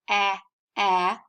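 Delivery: "ah" as the short A of math, twice; short vowel demonstrated. Shown as a demonstration. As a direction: isolate each "ah" with a pause between. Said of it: "the vowel sound in the middle".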